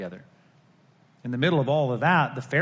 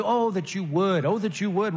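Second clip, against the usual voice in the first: acted yearning cry, pitched up; wishful plea; 5 semitones higher than usual. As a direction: plead it with a long, rising "oh". Acting out Jesus' unfinished lament.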